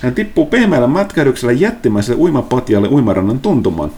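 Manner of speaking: game master narration. Acted.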